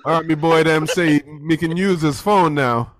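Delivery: put-on slow, lightly done Jamaican accent; a half-hearted Jamaican mom answering, slowly. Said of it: "my Jamaican accent is not better".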